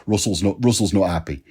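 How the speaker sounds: lightly put-on Manchester accent; Nick Linen, Manchester accent. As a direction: imitate the agent with a hint of Mancunian. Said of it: "So that's my Manchester accent".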